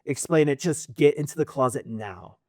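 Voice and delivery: understated, stammered insistence; nervous urgency. Acted. Mentor refusing to explain to Pyra, nervously urgent. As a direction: cut off the questions and press the order. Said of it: "he's obviously sounding really nervous".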